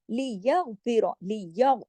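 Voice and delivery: लियग with a thick settled throat ग; firm heavy ghain. Shown as a demonstration. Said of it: "गैन को जमाओ के साथ, लेकिन मोटा". (लियगफिर, गैन मोटा और जमा हुआ)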